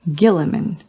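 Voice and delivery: "Gilliman" opening on a hard g, as in give; "Gilliman" with a g as in gift. Shown as a demonstration. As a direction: say "Gilliman" as GHIL-i-man. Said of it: "with a hard G".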